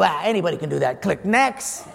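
low, fast brush-off; dismissive host. Retold or imitated. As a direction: wave them off fast.

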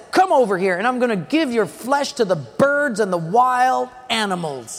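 half-yell a giant's threat; mild mock yell. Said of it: "he yells".

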